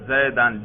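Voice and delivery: زیدن said as zaidan, ending in -an; accusative ending. Shown as a demonstration. Teacher showing students the nasb case, zaidan with -an. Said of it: "نصب پہ تلفظ کر کے دکھاؤ".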